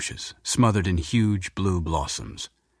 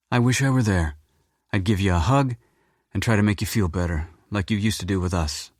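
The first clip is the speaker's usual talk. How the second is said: a grown daughter wishing she could hug him; lightly voiced daughter; 3 semitones higher than usual. Daughter comforting her sad father by phone, lightly voiced.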